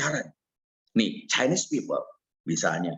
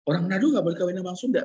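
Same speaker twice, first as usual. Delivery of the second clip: retold angry mother; 3 semitones higher, much faster than usual. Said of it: "mami saya ngamuk berat".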